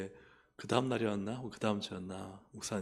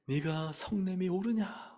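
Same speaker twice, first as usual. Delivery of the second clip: slow, higher, drawn-out questioning; God's rebuking question; 7 semitones higher, slower than usual. Retold or imitated. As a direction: put the question slowly, as a retold divine reproof. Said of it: "그런 말씀을 계속 하시는 거예요".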